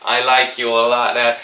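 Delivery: loud, high, gushing hostess; delighted socialite. Acted. Kimberly takes to a witty newcomer, loud and delighted. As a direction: gush loudly, drawing out the liking.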